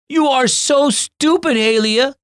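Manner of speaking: put-on high, loud boyish outburst; furious kid yelling at his sister; angry shout. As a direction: snap at your sister in anger. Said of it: "Kai shouted".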